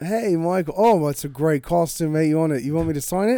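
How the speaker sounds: British star impression; Henry Cavill. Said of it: "we're gonna reverse it".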